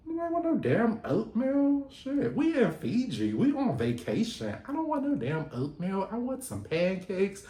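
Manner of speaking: high, indignant mock demand; Lucinda's demand. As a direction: list what she wants, fed up. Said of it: "And Lucinda's like".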